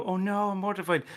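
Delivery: oh-no embarrassment, played up; mortified. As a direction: act out a mildly horrified parent. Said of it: "the way you're mortified".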